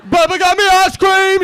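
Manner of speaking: high, loud, slow kid imitation; Forrest Gump. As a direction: stretch it out like an excited nephew. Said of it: "He sounds like Forrest Gump".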